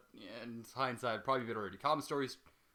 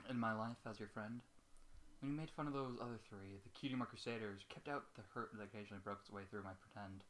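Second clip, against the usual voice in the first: softer, subdued reading of a farewell note; quiet letter reading; 3 semitones lower, 11 dB quieter than usual. A narrator's reading. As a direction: read it low, as the sad friend's last words.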